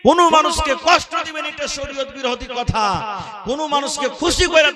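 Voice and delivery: preaching shout. Real, not acted. Preacher warning the congregation against hurting people, fervent shout. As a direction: hammer the lesson out to the crowd. Preacher driving home the lesson.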